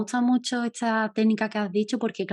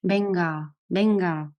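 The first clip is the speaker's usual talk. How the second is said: mock urging venga; much slower than usual. Shown as a demonstration. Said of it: "el venga, todavía más".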